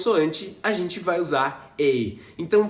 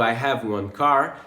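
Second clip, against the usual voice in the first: slow demo; 6 semitones lower, slower than usual. Shown as a demonstration. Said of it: "naquele outro exemplo".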